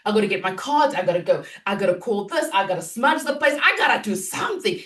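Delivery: imitating a frantic coach losing it; mock freak out. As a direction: rattle off the to-do list in a hammed-up panic. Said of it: "then you do the whole freak out thing".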